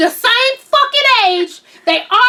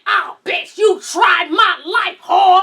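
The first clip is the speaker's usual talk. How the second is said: mock threat to rat; slower than usual. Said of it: "I'm like".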